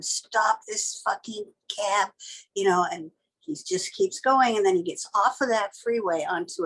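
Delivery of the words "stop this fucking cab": slow, drawn-out desperate yell; a frightened passenger trapped in a speeding cab, panicked and angry; terrified demand. Retold or imitated. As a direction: beg him to stop the cab, scared and furious. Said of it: "I'm banging on the partition".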